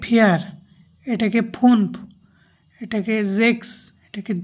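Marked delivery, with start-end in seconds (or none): 0.0-0.4 ফিয়ার said as German "vier"; German pronunciation. Shown as a demonstration. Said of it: "এটাকে বলবো". 1.5-1.9 ফুনফ said as "funf" for German fünf; German pronunciation. Shown as a demonstration. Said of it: "এটাকে বলবো". 3.4-3.7 জেক্স said as German "sechs", ending in ks; German pronunciation. Shown as a demonstration. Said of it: "এটাকে বলবো".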